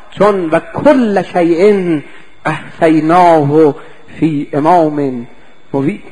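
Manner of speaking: verse drawn out slowly, word by word; slow Quran recitation. Acted. Preacher quotes the verse as proof, slow recitation.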